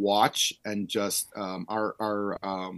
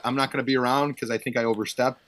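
higher, louder nervous backpedal; mock flustered retreat; 5 semitones higher, 3 dB louder than usual. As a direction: scramble away from the big guy, hammed-up. Flustered retreat from angry coach.

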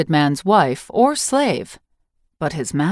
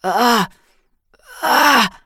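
sharp cries of pain, rising higher and louder; pained grunts; 6 semitones higher, 3 dB louder than usual. A narrator's reading. Wounded young warrior feels his wound, pained yelps. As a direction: yelp from a sting in the gut. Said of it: "He grunted, bit back a curse".

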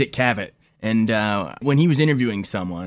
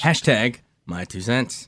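slow, drawn-out hashtag announcement; slow announcer tag; much slower than usual. Pretend. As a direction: spell out the hashtag slowly. Cohost tags his tweet.

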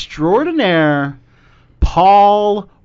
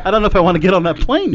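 laughing; much faster than usual. Real, not acted. Laughing at the captain bit.

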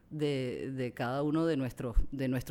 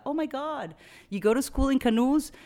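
high, loud exaggerated gasp of disbelief; mock shocked American; 10 semitones higher, 7 dB louder than usual. Mocking an American shocked she's Venezuelan, high and loud. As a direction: ham up a clueless American. Imitating ignorant American reaction.

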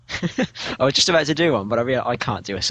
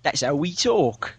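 slow, higher British accent; exaggerated British accent; 4 semitones higher than usual. Shown as a demonstration. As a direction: play up your British accent, drawn out. Briton mocks the imitation back.

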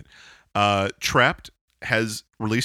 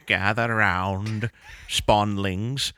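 future grandfather storyteller; slower than usual. Pretend. Future elder telling story.

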